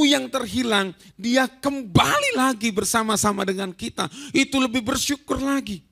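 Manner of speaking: a father coaxing his sulking son back in; gentle father. Retold or imitated. Father gently reasoning with his elder son, lightly voiced.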